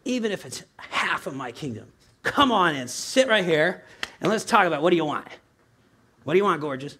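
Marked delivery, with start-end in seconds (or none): 2.2-7.0 playful, louder, slowed invitation; silly fond father. Pretend. Pastor playing a fond father calling his child in. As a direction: coax like a doting dad. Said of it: "I'm being silly".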